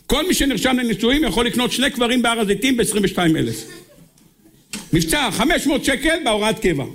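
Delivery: high-pitched, pushy salesman patter. Acted. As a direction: sell burial plots like a grinning huckster. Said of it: "תגיד לו".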